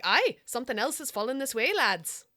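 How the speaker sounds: lightly put-on Irish lilt; a hint of Irish brogue; Irish accent. Shown as a demonstration. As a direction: try it as an Irish sailor, slightly Scottish. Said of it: "I feel like they've got Irish accents".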